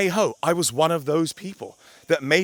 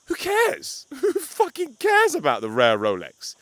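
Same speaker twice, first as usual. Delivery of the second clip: much higher, louder, laughing dismissal; cackling who cares; laughing scoff; 11 semitones higher, 3 dB louder, slower than usual. Real, not acted. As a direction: laugh it off in disbelief. Mocking laugh at the brag.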